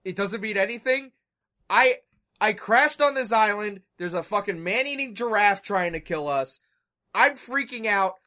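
loud, high, mock panicked rant; freak out. Retelling Hurley yelling at the French lady, loud and high. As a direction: rant like a man losing it on an island. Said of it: "Hurley has a pretty well-written freak out".

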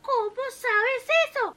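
the wife confronts her husband; angry wife. A narrator's reading.

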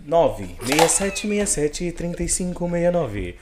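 slow, put-on announcer read of the number; nice announcer voice. Shown as a demonstration. Host repeats the sponsor's number in a mock announcer voice. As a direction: sell the phone number like an ad spot. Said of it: "até consegui fazer uma voz legal".

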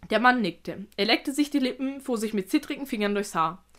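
measured read-aloud narration; careful storyteller's reading; story narration. A narrator's reading. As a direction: tell it evenly, like an audiobook.

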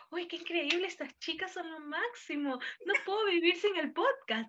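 a gushing podcast fan, lightly voiced; excited fan. Imagining a robber who loves the podcast, gushing. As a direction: gush like a thrilled listener. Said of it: "está con su celular así".

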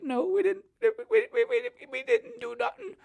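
mock a frightened kid backing off fast; high-pitched whiny cowardly voice; scared squeaky voice.

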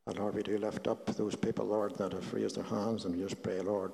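soft, reverent prayer voice; healing prayer. Acted. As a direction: pray it gently, fading to a hush.

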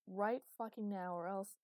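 loud, drawn-out demand left hanging; trailing-off threat. Acted. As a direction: stretch out the demand, then leave it unfinished. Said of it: "he trailed off as if he wasn't sure".

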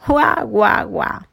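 three spaced exclamations, fading; half surprised, half teasing; surprised, mocking murmur. A narrator's reading. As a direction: let the mock amazement drop away. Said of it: "murmuró tío Conejo".

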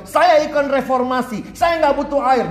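high, drawn-out proud declaration; defiant fish. Acted. Preacher mimics a rebel fish to youths, high defiant declaration. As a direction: proclaim it high, stretching the words.

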